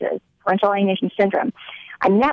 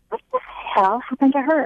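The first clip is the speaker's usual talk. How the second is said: retold alarmed question; 7 semitones higher than usual. Confronting the ex at door.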